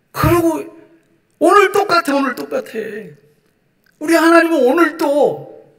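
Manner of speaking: high, loud preaching that builds to a shout; full-force preaching. Acted. Preacher urging the congregation, loud and high. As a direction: preach it hard to the whole church.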